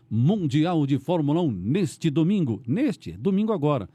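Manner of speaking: slow, drawn-out announcer promo; radio promo read. Shown as a demonstration. Radio host demonstrating a race promo, announcer voice. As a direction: sell Sunday's race like a broadcast teaser. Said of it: "é aquele negócio do, da Fórmula um".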